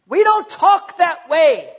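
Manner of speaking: slow, measured mock reprimand; firm parental correction. Father telling his little kids, firm and slow. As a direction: correct the kids slowly and firmly.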